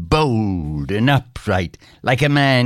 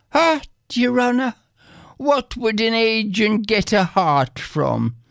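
high-pitched, exclaiming Irish peasant; 10 semitones higher than usual. A narrator's reading. Bill answering the stranger about the agent, exclaiming. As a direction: cry it out high, incredulous at the very idea. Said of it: "exclaimed Bill".

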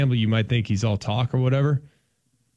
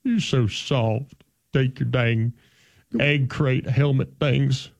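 O-line coach impression; 3 semitones higher, slower than usual. Host berates imaginary linemen, Southern coach rant. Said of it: "impersonate offensive line coaches".

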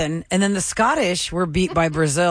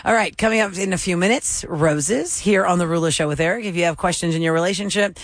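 radio promo. Acted. Radio host teaser read.

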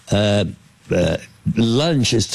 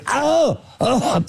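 high-pitched "oh!" of pretend pain; yelping as if just bitten; mock yelp of pain. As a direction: re-enact a sudden ouch, pitched way up. Acts out being bitten.

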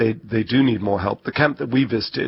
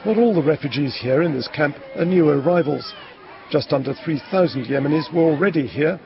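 measured, higher reporter voice; news report narration; 4 semitones higher than usual. Acted. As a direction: narrate the report in deliberate phrases.

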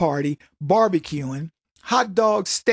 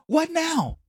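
mocking taunt; 10 semitones higher, 3 dB quieter than usual. Taunting the science trusters.

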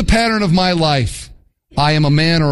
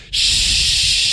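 whispered shoot. Retold or imitated. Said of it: "Or how about this?".

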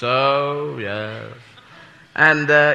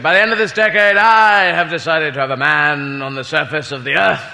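Macmillan quote; 2 semitones lower than usual. Retold or imitated. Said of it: "he made a speech where he said".

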